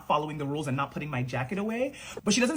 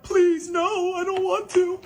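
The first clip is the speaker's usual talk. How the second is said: put-on high, louder pleading kid voice; pleading little girl; 11 semitones higher, 4 dB louder, slower than usual. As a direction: beg like a scared six-year-old. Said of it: "And I'm like".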